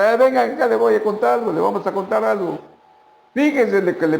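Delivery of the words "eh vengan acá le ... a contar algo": calling out. Retold or imitated. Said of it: "llamaran a todos los pescadores".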